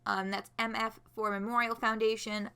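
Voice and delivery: ordinary delivery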